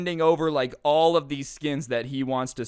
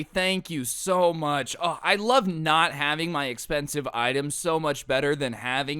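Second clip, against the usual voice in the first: mock gratitude. Robbed friend sarcastically thanking the thief, mock gushing. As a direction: gush fake thanks dripping sarcasm. Victim mocking thank-you.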